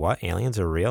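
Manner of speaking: ordinary talk, nothing marked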